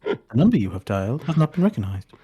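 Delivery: flat recorded operator voice; mock automated line announcement; automated phone message. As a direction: read it like the phone network's robot message. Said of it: "God, that's a damn good impression".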